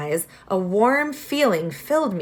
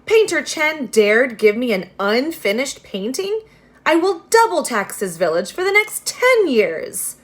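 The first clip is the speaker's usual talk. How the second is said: loud, high angry ranting; an outraged official shouting; furious; 6 semitones higher, 5 dB louder than usual. Acted. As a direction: threaten the village in a rage. Magistrate rages at painter.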